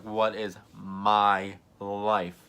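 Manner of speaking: very slow, word by word; dramatic disbelief. Retold or imitated. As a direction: drag out every word in mock disbelief. Repeats the line in disbelief.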